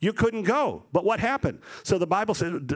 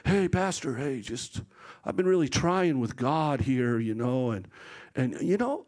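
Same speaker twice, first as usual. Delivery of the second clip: lightly acted, halting confession to pastor; churchgoer pleading his case. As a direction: imitate a hesitant parishioner, trailing pauses. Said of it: "they come up and they tell you these crazy stories".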